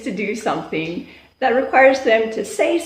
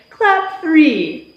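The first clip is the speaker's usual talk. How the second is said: teacher call; 5 semitones higher, 4 dB louder than usual. Shown as a demonstration. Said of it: "give them a look".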